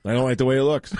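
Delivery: unintentionally robot-like delivery; robotic. Real, not acted. Host explaining a jersey number he dislikes, slightly robotic. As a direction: say it a little like a robot. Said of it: "That was robot".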